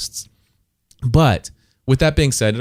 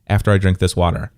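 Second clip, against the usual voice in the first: ordinary talk, nothing marked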